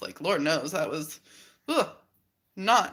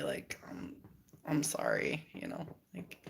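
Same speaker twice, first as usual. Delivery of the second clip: much lower, soft half-whisper; hushed apology; 8 dB quieter than usual. Retold or imitated. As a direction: murmur the apology gently. Hushed apology to stressed mom.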